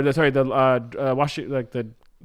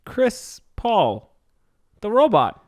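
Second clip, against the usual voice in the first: high, polite halting robot; timid lost robot; 10 semitones higher, slower than usual. Acted. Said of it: "You already did the voice".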